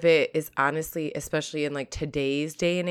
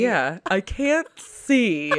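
mock old lady; 3 semitones higher, much slower than usual. Pretend poor eyesight.

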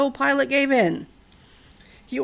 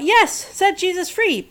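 higher, slow mock cheer; hoped-for crowd shout; 8 semitones higher, 3 dB louder, slower than usual. A narrator's reading. Crowd cheering for Pilate to free Jesus, slow mock cheer. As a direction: call it out slowly like a hopeful crowd. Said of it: "Pilate waited for the crowd to shout".

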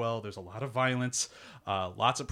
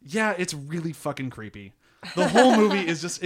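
laughing; 5 semitones higher, 8 dB louder than usual. Real, not acted. Answering friend about scary film, laughing.

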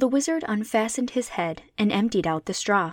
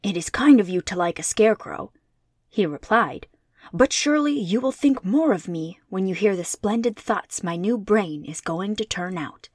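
a lightly voiced, louder cheerful scarecrow; bright straw man eager for his brains; 4 dB louder than usual. Scarecrow telling friends he gets brains, lightly voiced cheerful.

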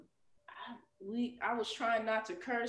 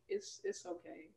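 whispered and higher, softer; mom's reassurance; 9 semitones higher, 6 dB quieter than usual. Retold or imitated. Guest imitates her mom accepting her, soft whisper. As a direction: breathe it gently like mom. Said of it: "she was like".

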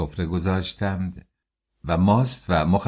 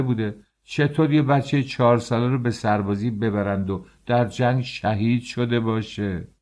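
outraged shout; 4 semitones higher than usual. Acted. Father shouts at the census official in disbelief, outraged. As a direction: protest in disbelief at the top of your voice. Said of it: "فریاد کشید".

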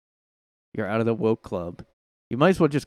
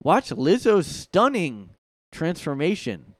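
slow, higher tabloid headline read; mock headline; 5 semitones higher, slower than usual. Reading a gossip headline aloud, slow and hyped. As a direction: announce it like clickbait. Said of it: "That's what the articles are gonna say".

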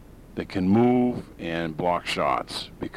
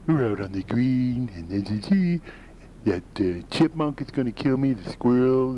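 Caddyshack groundskeeper; 6 semitones higher than usual. Retold or imitated. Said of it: "Bill Murray's character, the groundskeeper".

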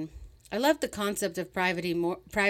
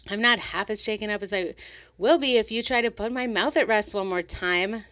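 loud, higher, snapping warning; barked; 4 semitones higher, 4 dB louder than usual. Acted. Sylvia warning the old man off, loud angry bark. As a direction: bite each word at him. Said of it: "she barked".

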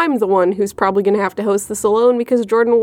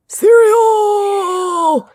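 high, loud cartoon geezer shout; cartoon old man; 11 semitones higher, 4 dB louder than usual. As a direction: bark it like a cranky cartoon grandpa. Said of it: "I just sounded like a cartoon character old man".

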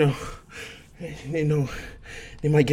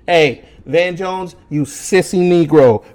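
calling out; 5 dB louder, slower than usual. Real, not acted. Calls out TV pundit mockingly.

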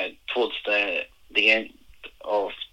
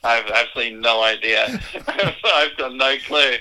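laughing disbelief; 3 semitones higher than usual. Retold or imitated. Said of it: "and I went".

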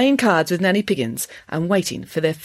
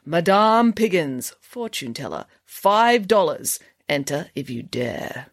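grand sign reading; slower than usual. Acted. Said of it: "repainted it in exotic lettering".

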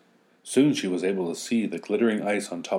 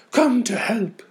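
very high, loud cry out; screaming for mother; 8 dB louder, slower than usual. Acted. Blizzards calling the Winter Witch, very high scream. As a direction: shout for mother. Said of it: "they all screamed".

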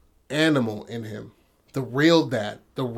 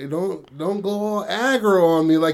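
imitating the dad; 5 semitones higher, 5 dB louder than usual. Dad warning son.

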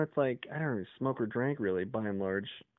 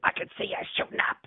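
retold accusing yell; 3 dB louder, faster than usual. Quoting the man, rough voice.

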